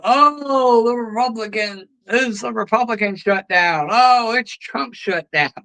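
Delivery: sarcastic mimicry of Democrats blaming Trump; mocking Democrats. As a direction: sneer it like a sulky partisan. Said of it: "These people going".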